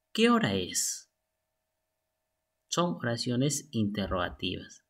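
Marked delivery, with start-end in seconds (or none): 0.1-1.1 much higher rising question tune on ¿Qué hora es?; question intonation. Shown as a demonstration. Teacher demonstrating a high questioning tune. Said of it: "la entonación interrogativa".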